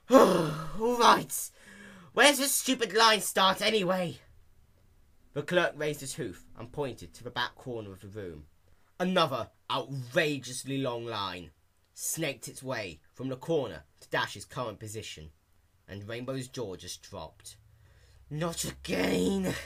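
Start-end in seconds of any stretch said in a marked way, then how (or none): 0.1-4.2 higher, louder irritated demand; annoyed grumble. A narrator's reading. Dash asking where the line starts, loud irritated. 18.3-19.6 slow, higher groan through teeth; gritted teeth. A narrator's reading. Dash seeing the long line, slow groan. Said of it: "She gritted her teeth in anger".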